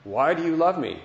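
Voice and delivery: put-on a little boy bursting to ask his daddy; excited little boy. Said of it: "he's all excited".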